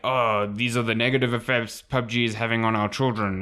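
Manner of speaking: hammy out-of-touch politician; half-baked old congressman impression. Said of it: "That is the worst Australian accent".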